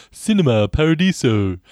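a hammed-up Italian "Cinema Paradiso"; Italian accent. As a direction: roll out the title like a mock Italian. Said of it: "That is awful".

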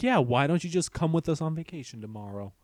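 mock bad acting. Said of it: "she goes like".

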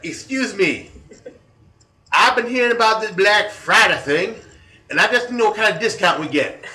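high, loud put-on Black American accent, laughing through it; Ebonics imitation. Prank caller asking the store manager about discounts, hammed-up high, loud Black American accent. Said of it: "Ebonics imitation".

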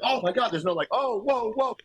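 high, airy fake-fancy gasp; mock elegant gasp. Sneering at the dialogue, high mock gasp. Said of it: "He's like".

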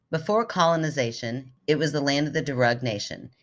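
steady, measured reading voice; story reading. Acted. Host reads her childhood story aloud, steady and measured. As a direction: read the story out with care.

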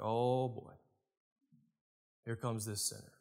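low, soft scornful aside; muttering Pharisees. Retold or imitated. Pharisees muttering as the sinful woman walks in, low scorn. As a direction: sneer it under your breath. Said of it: "It's like".

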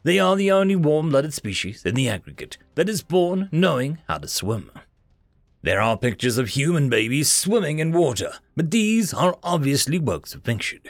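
documentary narrator voice; formal reference read. Acted. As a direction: read it like a textbook entry. Encyclopedia entry read aloud.

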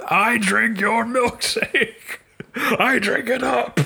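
slow, gloating villain line; movie villain quote. Acted. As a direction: savor each word slowly. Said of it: "movie quote performed".

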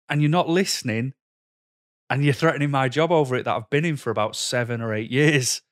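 frustrated outburst. Retold or imitated. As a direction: replay the rising frustration at the boss. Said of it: "getting so frustrated 'cause it was like".

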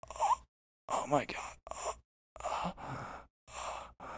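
fading gasps of collapse; mock dying gasps. ASMR parody woman collapsing, fading gasps. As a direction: gasp out and fade away. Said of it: "she'll just fall over dead".

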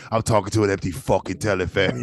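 put-on limey accent, swearing; British limey accent. Friend echoing the Hoskins line, mock British accent. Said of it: "You want him like a limey".

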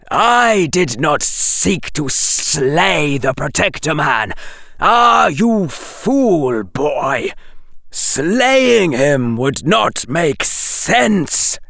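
high, slow serpent voice; an impatient snake scolds the boy; scolding snake. Acted.

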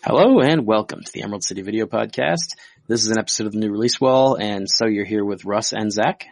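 rough sick voice; gravelly voice. Real, not acted. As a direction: talk through a sore throat. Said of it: "both of us are sick".

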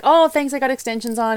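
high, loud, flustered brush-off of a compliment; mock her old self laughing off praise; flustered deflection. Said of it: "I'm like".

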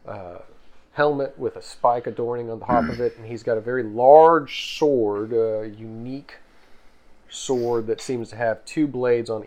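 slow, deliberate scene narration; game master scene setting. A narrator's reading. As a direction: paint the battlefield slowly for the players. GM sets the scene.

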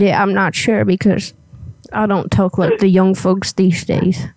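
lightly voiced old granny; a hint of a little old lady. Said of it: "I gotta get my old granny voice up here".

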